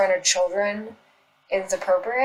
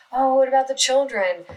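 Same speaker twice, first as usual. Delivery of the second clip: mocking whine; 6 semitones higher than usual. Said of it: "throw children under the bus and say".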